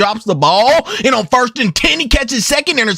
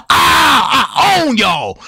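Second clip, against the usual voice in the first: cocky victory yell; taunting shout; 2 semitones higher, much slower than usual. Retold or imitated. Bones taunting the other team after winning, cocky shout. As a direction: crow it over the beaten team. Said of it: "get up and say".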